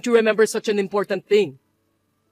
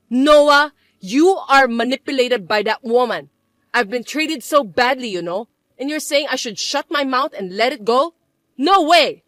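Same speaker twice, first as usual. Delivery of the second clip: outraged protest; 4 dB louder than usual. Acted. Mother protesting to her son, loud and outraged. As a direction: cry foul at her son.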